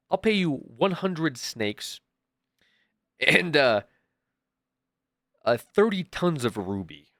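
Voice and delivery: slow, deliberate pompous offer; grand admiral. Acted. Admiral bargaining with the mafia, slow and pompous. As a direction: lay out the price like a grand admiral.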